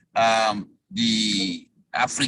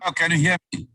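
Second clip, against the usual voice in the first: radio breaking up; 3 semitones higher, much faster than usual. Real, not acted. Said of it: "you're breaking up a little bit".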